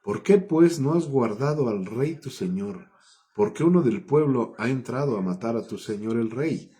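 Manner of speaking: agudo y fuerte al arranque, acusando; reprensión. Acted. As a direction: acusa al escudero de descuidar al rey. David rebuking the king's guard. (reproche enérgico y agudo)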